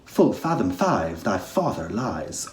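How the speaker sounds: playful, cheeky line. Shown as a demonstration. Teacher showing students a cheeky take on Ariel. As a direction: tease the listener with it. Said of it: "you might be cheeky".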